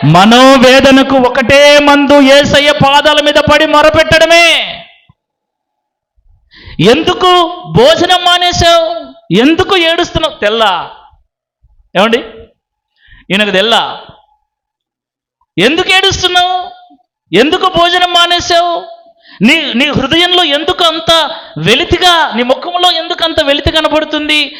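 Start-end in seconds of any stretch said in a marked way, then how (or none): 0.1-4.8 loud proclaiming sermon cry; preaching at full force. Real, not acted. Preacher declaring Jesus the only cure, loud and fervent. 6.9-10.4 higher, anxious questioning; concerned husband. Acted. Elkanah asking his wife why she weeps, higher and anxious. 15.6-24.6 higher, anxious questioning; concerned husband. Acted. Elkanah asking his wife why she weeps, higher and anxious.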